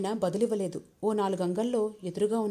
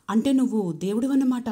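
eye-rolling question; 3 semitones higher, 7 dB louder than usual. A narrator's reading. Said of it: "కళ్ళు తిరుపుతూ అడిగింది".

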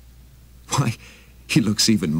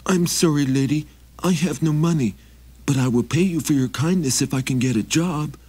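trembling voice; 9 semitones higher than usual. Acted. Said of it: "said in a trembling voice".

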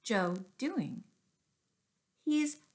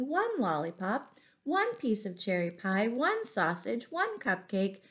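lively storybook read-aloud to a class; reading to children. Acted. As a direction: read it like story time for little ones. Teacher reads picture book aloud.

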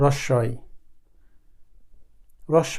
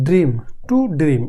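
ড্রিম, to dream spoken slowly and deliberately; slow English gloss; 3 dB louder, slower than usual. Shown as a demonstration. Teacher glossing the word in English, slow and deliberate. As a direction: give the English meaning slowly. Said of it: "এটা একটা verb".

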